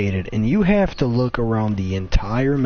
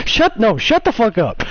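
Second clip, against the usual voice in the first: mock angry snap; 10 semitones higher, 4 dB louder than usual. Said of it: "He's like".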